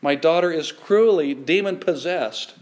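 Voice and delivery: understated mother's cry for help; mild pleading cry. Retold or imitated. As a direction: beg for your daughter, lightly voiced. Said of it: "a Canaanite woman cries similarly".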